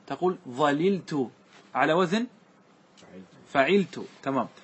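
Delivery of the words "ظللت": slow "ظللت" as dhaliltu, two separate lams; both lams pronounced. Shown as a demonstration. Teacher demonstrating the full form, "ظللت" slow with both lams. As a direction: unmerge the doubled l in "ظللت", dhaliltu. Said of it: "وتأتي باللامين".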